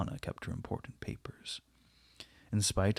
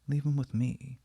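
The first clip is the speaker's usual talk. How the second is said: pleading; 3 semitones higher than usual. A narrator's reading. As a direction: beg him to leave the boy. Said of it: "she said again".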